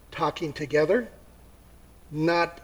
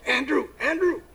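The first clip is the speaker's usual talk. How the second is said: worried whisper; 2 semitones lower, 6 dB quieter than usual. Acted. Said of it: "And he goes".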